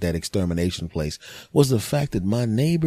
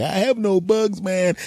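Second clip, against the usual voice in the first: neighbor relaxed; 11 semitones higher than usual. Retold or imitated. Neighbor voiced higher.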